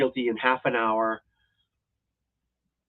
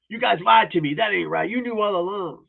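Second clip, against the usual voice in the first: whiny caught punk; 7 semitones higher than usual. Retold or imitated. Killer caught lying to the cops, high mock whine. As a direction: sound wounded and betrayed, mocking. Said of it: "he's like".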